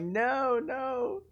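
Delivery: imitating a friend's squeaky no; emphatic denial. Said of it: "Snowy was like".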